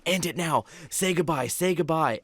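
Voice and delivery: retold urgent order to a friend; urgent insisting. Telling a friend to close the Ouija board, urgent insisting.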